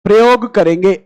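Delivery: slow, long pauses between phrases; slow dictation. Shown as a demonstration. Teacher dictates a rule for students to copy, slow. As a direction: dictate word by word for notes. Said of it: "एक word बोल देता हूं यहां पर".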